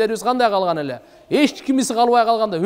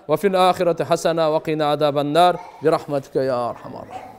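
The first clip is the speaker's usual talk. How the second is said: prayer. Acted. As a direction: intone a supplication over the congregation. Leads a closing prayer (dua). (жапырт дуа окуган үн)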